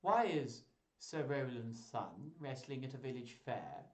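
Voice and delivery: lightly voiced whiny courtier; a hint of whine in the question. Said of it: "he's just got this whiny voice".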